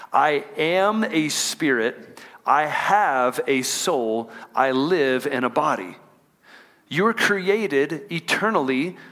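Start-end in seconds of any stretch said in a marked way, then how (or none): 0.1-6.0 slow, deliberate, leading the room; congregation call-and-repeat. Shown as a demonstration. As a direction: lead the church through it slowly. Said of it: "I want y'all to say that with me".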